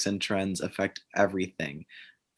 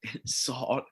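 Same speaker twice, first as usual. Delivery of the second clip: lightly put-on bro voice, soft; 3 semitones higher, 5 dB quieter than usual. Guest warms up her character for the argument, mock bro voice. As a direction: try out a bro voice. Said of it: "my broy voice for a second".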